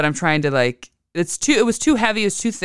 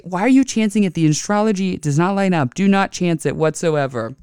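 retold scolding; 4 semitones higher than usual. Retells scolding her husband.

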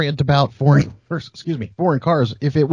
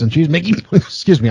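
coughing fit; 4 semitones higher than usual. Real, not acted. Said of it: "I'm coughing up a lung".

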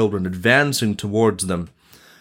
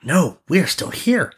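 lightly voiced higher prince; higher storybook prince; 8 semitones higher than usual. A narrator's reading. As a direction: reassure a crowd in a raised voice. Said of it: "said the prince".

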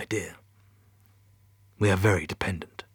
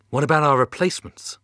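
urgent; 5 semitones higher, 6 dB louder than usual. Acted. Astronaut pleads with mission control.

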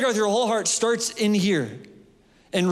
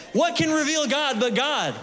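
preaching shout; 4 semitones higher than usual. Real, not acted. Preaching climax.

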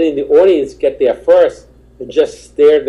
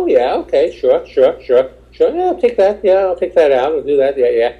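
mock eager yes-man, quick and agreeable; nodding along to placate him; eager agreeing; 2 semitones higher than usual. To the booker going over his act, eagerly agreeable. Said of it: "physically outside, you go".

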